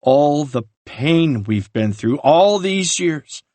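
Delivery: anguished rage. Acted. Ryan confronts brother over lies.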